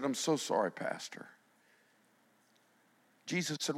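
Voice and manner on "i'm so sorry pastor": weeping apology. Retold or imitated. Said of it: "she started weeping and repented".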